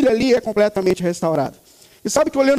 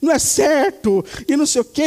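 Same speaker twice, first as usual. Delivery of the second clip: mimicking a grumbling child; 4 semitones higher than usual. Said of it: "ele ficou resmungando no quarto contra mim".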